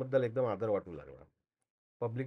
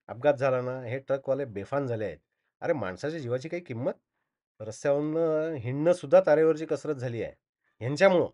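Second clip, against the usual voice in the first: pointed complaint, building louder at the end; needling reproach; 4 dB louder than usual. Acted. Onlookers blaming the truck driver, needling reproach. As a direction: have a dig at the accused. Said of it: "सगळे ट्रकवाल्याला टोचून बोलू लागले".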